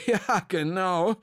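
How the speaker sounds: put-on slow, kindly old director agreeing; a light smile in the voice; old director smiling as he agrees; smiling reply. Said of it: "erwiderte Herr Senf und lächelte".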